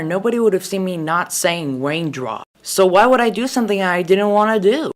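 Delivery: ordinary talk, nothing marked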